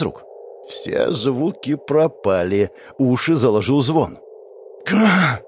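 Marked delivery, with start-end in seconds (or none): 4.8-5.4 a sharp cough forced out by sudden pain; coughing out air. A narrator's reading. Hero struck by pain coughs the air out. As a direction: choke out a short cough. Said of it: "выкашливаю воздух".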